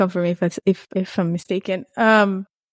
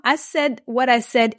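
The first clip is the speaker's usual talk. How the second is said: calm voice; 3 semitones higher than usual. Real, not acted. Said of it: "in a calm voice".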